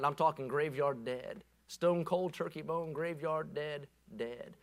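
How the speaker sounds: fading down to a near whisper; hushed emphasis. Real, not acted. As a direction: drop the voice to a grave hush. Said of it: "preacher drops voice for effect".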